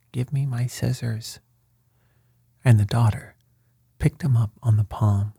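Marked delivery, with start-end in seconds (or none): 0.1-1.4 small, higher and softer, a tiny crab's plea. Acted. Newly shrunk crab asks magician for scissors, tiny soft voice. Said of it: "crying in a very small voice".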